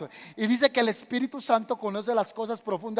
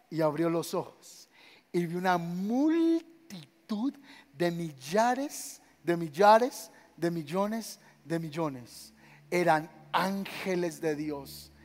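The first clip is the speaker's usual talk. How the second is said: awed hush; 3 semitones lower, 4 dB quieter, much slower than usual. Acted. Visión narrada en tono solemne.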